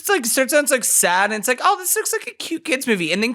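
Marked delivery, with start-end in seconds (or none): 1.6-3.1 high-pitched mock-sweet reaction; cooing viewer. Podcaster imitating a trailer viewer, mock-charmed.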